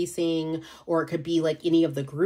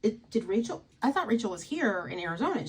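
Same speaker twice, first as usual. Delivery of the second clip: mildly higher mock surprise; imitating Ian; 6 semitones higher, faster than usual. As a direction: playfully voice a friend's fake confusion. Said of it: "he'd be like".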